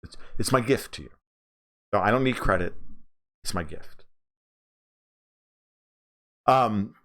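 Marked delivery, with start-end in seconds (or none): none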